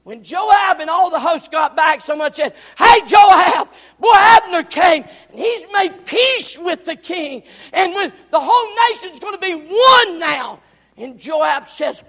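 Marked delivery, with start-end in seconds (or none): 2.8-10.6 high loud excited report; excited news. Acted. Messenger calling to returning Joab, excited shout. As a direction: burst in with the big news.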